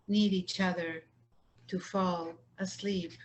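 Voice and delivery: measured poem recitation with line-end pauses; unhurried poet's reading, pausing between phrases; poetry reading. Acted. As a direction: read it line by line, letting each phrase settle. Poet reads her poems.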